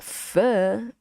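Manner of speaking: "pho" as a drawn-out "fur", voice rising; wrong pronunciation. Shown as a demonstration. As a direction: say "pho" like "fuh" with a questioning lift. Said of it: "it's not pho".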